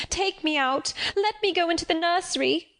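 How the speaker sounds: put-on high, desperate child's plea; frightened cry. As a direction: beg to be let out, pitched high. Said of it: "was my cry".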